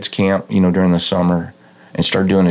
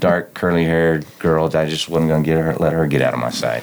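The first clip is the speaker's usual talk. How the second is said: smooth hypnotist-style voice, a touch lower; radio voice; 3 semitones lower than usual. Real, not acted. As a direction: ease into an unhurried radio voice. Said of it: "You have this radio voice".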